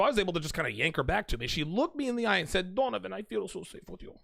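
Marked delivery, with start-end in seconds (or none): 2.7-4.2 put-on Ukrainian accent. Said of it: "in her thick Ukrainian accent".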